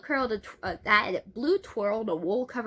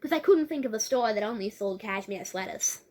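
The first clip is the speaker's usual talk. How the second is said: put-on Australian girl's voice; Australian accent; 4 dB louder than usual. Blue explaining her made-up store name, Australian accent. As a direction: play it as an Aussie explaining herself. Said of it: "I keep forgetting to do the accent".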